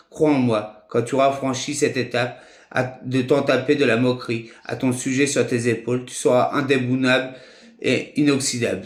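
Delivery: measured, phrase-by-phrase reading of verse; poem recital. Acted. Sharing his own poem of advice with friends, measured recital. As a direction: recite it line by line, pausing between phrases.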